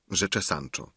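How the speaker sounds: usual speaking voice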